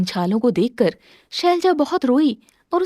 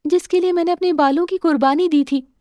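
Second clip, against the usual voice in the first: lightly raised tender wife voice; Shailja, tender; 4 semitones higher than usual. Acted. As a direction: offer the gift gently. Shailja offers her gift. (पति को उपहार दिखाती पत्नी, कोमल स्वर)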